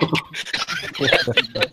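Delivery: very high wheezy giggle; long squeaky laugh. Real, not acted. Host laughs at the swearing.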